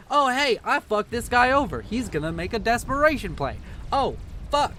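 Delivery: lightly acted voice of a player working it out; mock player's reasoning. Caster voices what the player should have thought, mock realization. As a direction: play a hint of dawning realization, mockingly.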